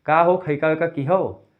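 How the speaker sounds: slow Bahraich Awadhi dialect; Bahraich की अवधी बोली में. Shown as a demonstration. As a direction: say it like a Bahraich local. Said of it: "Bahraich में क्या बोलेंगे".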